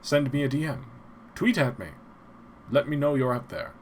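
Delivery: lightly voiced old-time radio announcer; a hint of a vintage radio host; old-timey radio announcer. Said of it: "I sound like an old-timey radio announcer".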